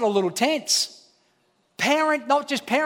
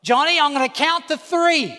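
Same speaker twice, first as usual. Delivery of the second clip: nagging parent; 3 semitones higher than usual. Retold or imitated. Parent in a restaurant scolding the kid, exasperated. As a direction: scold the kid in public without ever acting. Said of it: "everybody in the whole restaurant knows this kid's name".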